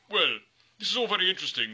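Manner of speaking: a hint of a high, loud bored troll; mock interest from the troll. Bored troll answers goat.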